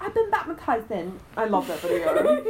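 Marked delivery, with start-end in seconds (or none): 0.0-1.2 Chloe impression. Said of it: "That's what you just sounded like".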